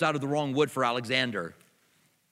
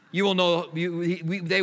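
louder, higher emphatic correction; 3 semitones higher, 4 dB louder than usual. Real, not acted. Preacher correcting the misquote, loud and emphatic. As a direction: hammer home the correction. Preacher stressing Jesus' words.

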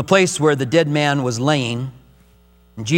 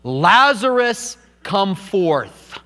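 crying out; 2 semitones higher, much slower than usual. Acted. Jesus calling dead Lazarus from the tomb, slow raised cry. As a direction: call him out of the tomb, stretching Lazarus. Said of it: "He cried out".

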